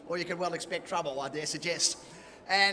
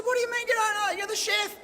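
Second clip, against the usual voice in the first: much higher, exasperated shout; retold exasperated shout; 12 semitones higher than usual. Patient yelling at the chef over meat, exasperated high shout. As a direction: throw it at him in disbelief.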